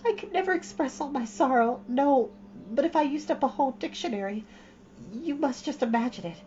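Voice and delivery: put-on high, dramatic pleading girl; beseeching. Anne on her knees begging Missus Lynde's forgiveness, beseeching. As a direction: throw yourself on her mercy, theatrically.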